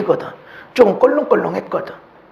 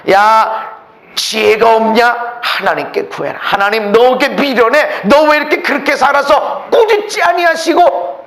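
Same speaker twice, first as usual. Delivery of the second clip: mock scolding; 3 semitones higher, 4 dB louder than usual.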